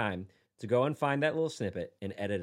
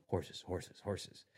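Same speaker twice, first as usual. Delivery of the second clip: lower, quiet echo; 8 semitones lower, 15 dB quieter, much slower than usual. Pretend. Echoing album song.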